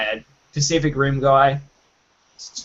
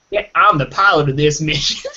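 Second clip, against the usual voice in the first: bad Southern accent. Mocking the captain's accent to co-hosts, bad Southern accent. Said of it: "he sounded really Southern and really bad".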